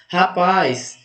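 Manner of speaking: "Rapaz" with the weight on PAZ; teacher showing PAZ as the strong syllable of "Rapaz"; stress on last syllable. Shown as a demonstration. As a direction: lengthen the final PAZ of "Rapaz". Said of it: "qual é a mais forte".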